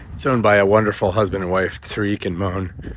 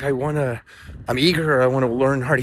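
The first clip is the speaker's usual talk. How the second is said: imitated keen pupil, higher pitched; eager pleading; 4 semitones higher than usual. Discouraged pupil insists to his teacher, eager and higher. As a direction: lift the pitch like a schoolboy earnestly protesting.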